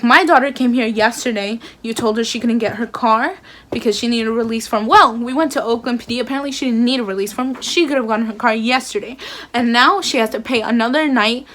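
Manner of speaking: loud, heated dad complaining. Retold or imitated. Dad confronting the tow lot clerk, loudly heated. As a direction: lay into the clerk, firm and loud. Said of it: "Best believe my dad's heated".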